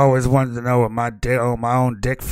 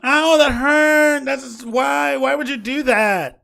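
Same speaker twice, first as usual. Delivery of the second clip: pained yelp; 12 semitones higher, 3 dB louder, slower than usual. Acted. NPC kicked, complains.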